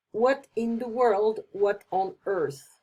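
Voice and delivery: slowed-down stunned question; surprised. Shown as a demonstration. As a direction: stretch it out in shock. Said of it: "really a surprise, a shock".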